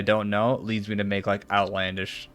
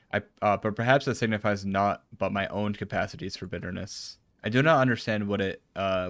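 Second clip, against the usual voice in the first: even, measured read of formal dialogue; reading game dialogue. Acted. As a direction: read the character's lines evenly, lightly dramatised. Reads game dialogue aloud.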